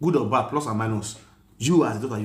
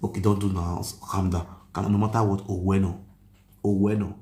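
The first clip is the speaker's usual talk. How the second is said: retelling how he calmed the upset mother; soothing; 5 semitones lower than usual. Retold or imitated. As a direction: gently talk an angry woman down. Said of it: "I call the calm her down".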